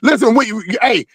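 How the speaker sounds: heated, insistent protest; agitated, stumbling interruption; worked up. Real, not acted. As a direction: argue back, restarting over and over. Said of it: "why are you so worked up".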